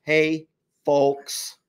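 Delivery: drawled Texas hey folks; deep south accent. Shown as a demonstration. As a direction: stretch it out like a Texan. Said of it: "Can you say it one more time".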